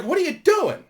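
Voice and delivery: high, loud disbelieving yell; shocked at what he sees; incredulous shout. Retold or imitated. Watching Paul bang a gate with his gun, high alarmed yell.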